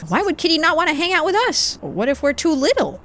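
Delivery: put-on high-pitched, questioning child voice; little kid. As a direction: play a small kid wondering aloud. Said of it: "let's talk to the kids".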